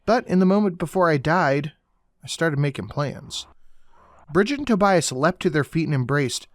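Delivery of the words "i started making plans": ordinary delivery, nothing marked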